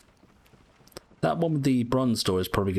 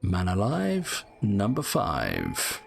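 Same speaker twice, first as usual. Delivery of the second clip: bingo caller; much slower than usual. Pretend. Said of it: "Imagine being a bingo caller".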